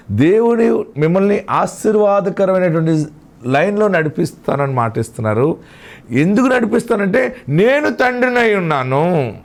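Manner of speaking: preacher building with conviction; impassioned preaching. Acted. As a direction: proclaim the promise to the congregation, pitch lifted. Preacher proclaims God's promise.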